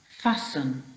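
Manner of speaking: "fasten" with a weak, reduced last syllable; unstressed ending. Shown as a demonstration. Teacher modelling a spelling word for pupils, "fasten" with unstressed ending. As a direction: say "fasten" with the ending swallowed to a quick "-sn". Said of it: "that last syllable is not a stressed".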